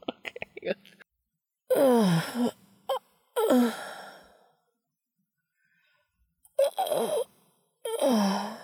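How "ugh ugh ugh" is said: choked-off groan. Acted. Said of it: "in a choked off voice".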